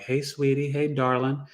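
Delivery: lightly imitated Southern belle greeting. Imitating mother greeting his friends, light Southern belle lilt. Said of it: "spoke to you like she was a Southern belle".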